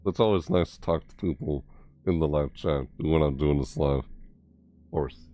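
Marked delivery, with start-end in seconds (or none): 4.1-5.3 whisper. Real, not acted. Whispered aside.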